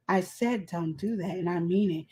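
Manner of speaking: soft, low, restrained warning; quiet firm talking. Retold or imitated. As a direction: imitate a quietly stern mother's friend. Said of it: "they be quiet talking like".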